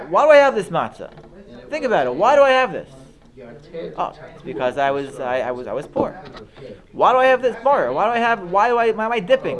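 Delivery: high, fast, eager questions to yourself; questioning voice. Shown as a demonstration. Teacher showing how to question yourself at the Seder, lively and high. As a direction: ask each one out loud, curious and lively. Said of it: "Or you could look at the matzah, you could say".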